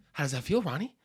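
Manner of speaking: lightly breathless bro voice; a hint of out-of-breath tough guy; Mark Wahlberg. Comic threatening his cohost in an impression, a little breathless. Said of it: "Mark Wahlberg? You just gotta be out of breath".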